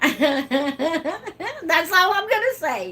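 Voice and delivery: slow, giggling refusal; laughing. Real, not acted. Dodging a viewer's question, slow and laughing. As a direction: laugh it off, slowly.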